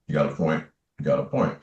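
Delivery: low, soft reluctant admission; quiet concession. Retold or imitated. Man conceding a point to his angel, low and subdued. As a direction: concede it softly, under your breath.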